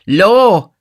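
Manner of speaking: high, loud drawn-out exclamation; tipsy, pondering youth, pitched high; reflective. A narrator's reading. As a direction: muse aloud in a high oafish voice. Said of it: "said Noah reflectively".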